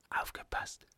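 tonlos hingehaucht, ganz leise; geflüstert. A narrator's reading. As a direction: warnend flüstern, kaum hörbar. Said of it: "flüsterte der Letztere". (leises Flüstern als Warnung)

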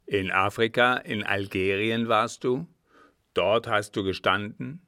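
put-on loud, gruff old captain; commanding, astonished questioning; startled interrogation. A narrator's reading.

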